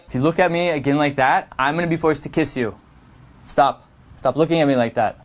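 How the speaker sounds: quick and flat, no play; flat rushed. Shown as a demonstration. The wrong way to flirt, quick flat delivery. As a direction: rattle it off nervously. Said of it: "is not flirting".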